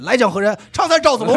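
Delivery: high, loud mock Peking opera call; mock opera hero. Dog dubs the video with a hammed-up opera call. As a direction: bellow it like an opera general.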